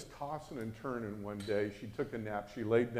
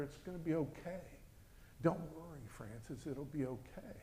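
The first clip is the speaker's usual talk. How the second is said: very soft, soothing words; soft reassurance; 2 semitones higher, 13 dB quieter than usual. Retold or imitated. Father comforting his daughter in her dream, softly reassuring. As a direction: gently settle someone's worry.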